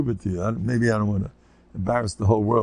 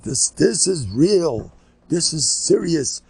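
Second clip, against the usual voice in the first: mock grave warning; 6 semitones higher, 3 dB louder, slower than usual. Newspaper man warning gravely.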